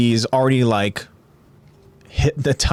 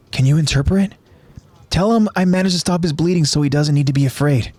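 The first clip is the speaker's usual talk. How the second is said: Falco; 6 semitones higher, faster than usual. Acted. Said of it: "Falco asks Udo".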